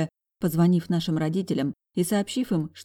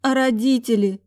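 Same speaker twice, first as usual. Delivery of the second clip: tearful; 7 semitones higher, 6 dB louder than usual. A narrator's reading. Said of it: "Вновь заплакала она".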